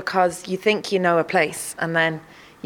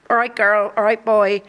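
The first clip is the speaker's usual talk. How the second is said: Cork greeting; 2 semitones higher, 4 dB louder than usual. Retold or imitated. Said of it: "it's very Cork".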